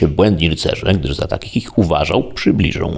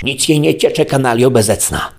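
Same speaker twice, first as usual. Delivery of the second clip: much higher, furious outburst; furious yell; 8 semitones higher than usual. A narrator's reading. Don Quixote yells at the mocking merchant, furious. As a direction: spit the insult in rage. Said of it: "wrzasnął Don Quixote wściekłym głosem".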